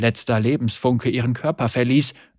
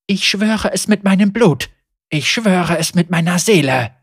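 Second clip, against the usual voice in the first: loud, higher sworn vow; fierce oath; 5 semitones higher, 5 dB louder than usual. Acted. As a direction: swear it with all your might. Blood oath to the spirit.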